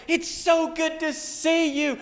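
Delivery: high, slow, gushing dog voice; excited pet voice. Retold or imitated. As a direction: voice an overjoyed dog greeting its owner. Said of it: "it's so excited. It's got the zoomies".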